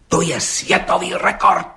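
high, slow, emphatic proclamation; agitated exclamation. A narrator's reading. Policeman announcing a world record to the judge, excitedly. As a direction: blurt it out excitedly, stretching the words high. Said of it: "vyhrkl rozčileně".

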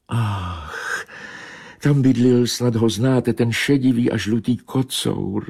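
high, grieving she-cat voice; mournful meow. Acted. She-cat to Bobeš, lamenting her lost friend. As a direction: sigh and mourn the lost tomcat. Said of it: "zamňoukala žalostně kočka".

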